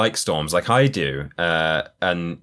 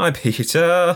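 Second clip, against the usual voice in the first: frightened and confused, higher pitch; 11 semitones higher than usual. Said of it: "You sound frightened and confused".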